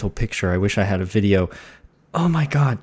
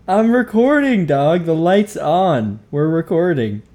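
mock scolding; 5 semitones higher, 3 dB louder than usual. Real, not acted. Scolding cat mid-recording.

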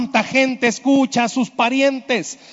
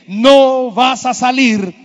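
discouraging voice; 3 semitones higher, 6 dB louder, much slower than usual. Retold or imitated. Inner voice discouraging listener.

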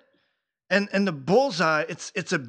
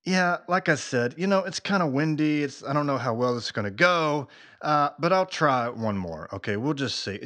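nonchalant. Retold or imitated. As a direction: imitate an unbothered shrug. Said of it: "just very nonchalantly, she's like".

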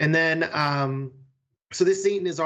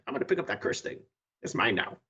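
a hint of a sly low voice, softer; greedy low mutter; 7 semitones lower, 6 dB quieter, faster than usual. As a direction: quietly claim the cursed thing. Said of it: "I was like".

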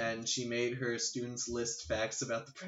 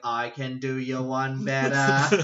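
put-on Cockney accent; 7 dB louder, slower than usual. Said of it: "He got real cockney there".

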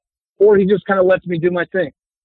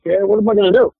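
lightly voiced mobster, pitched higher; resigned mob-guy shrug in the voice; 4 semitones higher, faster than usual. Actor mimicking fellow mob players, higher mob-guy voice. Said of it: "when the mob stuff".

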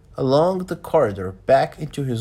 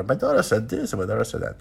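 a hint of a chattering American lady; lightly voiced, singsong elderly lady; talkative elderly lady; 3 semitones lower, faster than usual. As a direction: lightly mimic her repetitive chatter. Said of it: "kept talking about her daughter".

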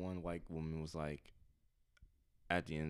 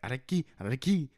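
calling out a name; 7 semitones higher, 8 dB louder than usual. Retold or imitated. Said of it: "He was like".

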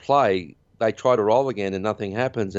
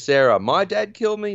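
high-pitched mock disbelief; acted incredulous retort; 10 semitones higher than usual. Retelling Alan answering Sarah's claim, mock incredulous. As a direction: throw it back, imitating someone incredulous.

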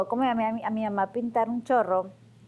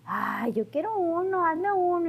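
high eager pleading; eager friend; 8 semitones higher, slower than usual. Retold or imitated. A friend asking her to paint one, high eager pleading.

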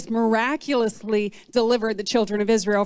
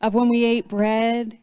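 wistful food longing; slower than usual. Pretend. Acting out hungry longing while fasting.

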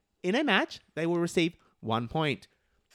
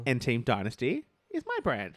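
whispered aside; whispering; 8 semitones lower, 3 dB quieter than usual. Real, not acted. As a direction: whisper it as a secret.

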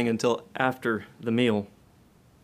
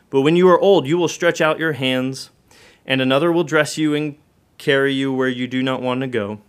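louder, rising prophetic warning; forceful reading; 6 dB louder than usual. Acted. Preacher reading Jesus foretelling Peter's death, loudly. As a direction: declare it with weight.

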